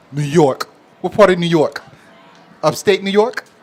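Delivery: horrible, bad put-on New York accent. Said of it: "I know that's, like, a horrible accent".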